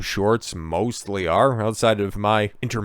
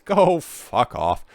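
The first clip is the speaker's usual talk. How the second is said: slow, laughing, raised go away; 7 semitones higher, 4 dB louder, much slower than usual. Real, not acted. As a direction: laugh it off at the app. Swearing at app prompt.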